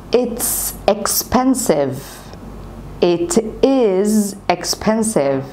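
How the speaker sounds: very slow, stretched repetitions; slow drill. Shown as a demonstration. Teacher drilling the sentence for learners, very slow. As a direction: drill it slowly, word by word. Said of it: "احفظ الجملة زي ما أنا بقولها لك كده".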